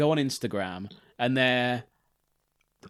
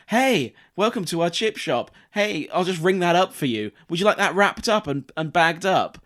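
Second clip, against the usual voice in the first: higher mock welcome patter; hammed-up shop worker ringing up; sing-song customer service; chirpy server; 5 semitones higher, 3 dB louder than usual. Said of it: "they're just going".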